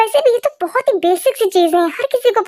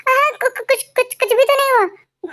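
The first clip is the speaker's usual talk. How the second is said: stammering, slightly higher-pitched cover-up; flustered denial; 4 semitones higher than usual. Acted. Brother hurriedly denying to his sister that anything happened, flustered. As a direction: trip nervously over the first word.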